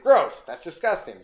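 slow, drawn-out disgust. Retold or imitated. Younger self reacting to gay sex, slow disgust. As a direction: pull a face and spit out the disgust. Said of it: "I was like".

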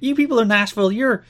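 hammed-up high, loud promo address; mock grandiose insult with a long groping pause; Raven. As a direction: imitate a wrestler scorning the crowd, lost for words. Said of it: "it's like".

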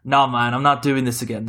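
lightly voiced actor impression, badly done; a half-hearted impression of a fed-up actor; John Boyega. Podcaster quoting an actor refusing a return, in a light impression. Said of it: "That's my really bad John Boyega impression".

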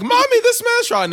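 put-on squeaky high little kid whining to mom, slow; whiny child voice. Kid whining to his mother about a man, high and slow. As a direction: tattle to mommy in a tiny voice.

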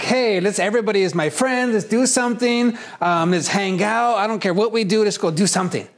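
mimicking an eager fun-loving friend; social lovebird type. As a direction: pull everyone in for fun. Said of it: "The lovebird is like".

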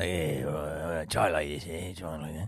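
low, soft imitation of the director; lightly voiced director coaching; a hint of a mumbling director giving notes; Tony Scott. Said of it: "Tony Scott's like".

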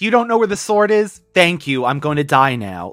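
high, weary giving-up voice; hammed-up hopeless hero; mock defeated Lion-O. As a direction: sigh it out like a hero who's quit. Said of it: "that's how he says it".

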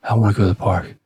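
put-on girl voice that comes out like a dude; badly faked girly voice; bad chick voice. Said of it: "I don't do a good chick voice".

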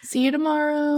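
high, sing-song goodbye; exaggerated high-pitched see-you-later; mock chirpy farewell. Shown as a demonstration. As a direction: lilt it high like an eager recruiter. Acts a forbidden recruiter farewell.

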